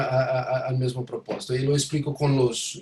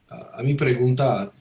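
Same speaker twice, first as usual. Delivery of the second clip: American accent Spanish. Real, not acted. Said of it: "disculpa mi español".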